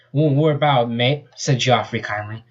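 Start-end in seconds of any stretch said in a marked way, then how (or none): 0.1-1.3 a hint of Australian twang on the line; lightly put-on Australian, easygoing; Australian accent. Australian volunteer reassures Sonic, light Australian accent. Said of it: "I finally got an accent ready".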